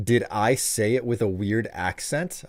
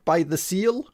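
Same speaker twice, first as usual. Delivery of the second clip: whispered; 9 semitones higher than usual. Real, not acted. Confused question trailing off.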